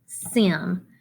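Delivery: Sim said alone as a separate syllable; isolated syllable. Shown as a demonstration. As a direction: clip off Sim like one tap. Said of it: "First syllable".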